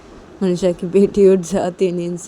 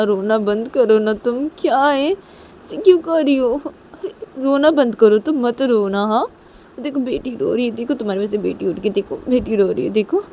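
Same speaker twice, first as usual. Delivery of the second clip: higher-pitched, insistent scolding; exasperated pleading; 5 semitones higher than usual. Acted. Manisha urges Nisha to stop crying, exasperated pleading.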